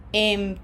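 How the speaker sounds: Empezaste with ZAS stressed; stress on second-last syllable. Shown as a demonstration. Teacher giving students a model, Empezaste stressed on ZAS. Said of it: "on the red syllable, syllable number two".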